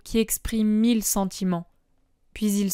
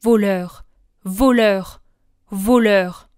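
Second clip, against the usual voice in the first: low terrible tone; 5 dB louder, slower than usual. Acted. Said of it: "à voix basse, mais sur un ton terrible".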